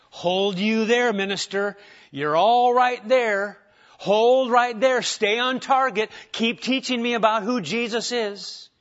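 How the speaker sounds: loud, slow call from the back pew; old elder shouting. Retold or imitated. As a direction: boom it out like an elder interrupting the preacher. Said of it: "The elder would shout from the back pew".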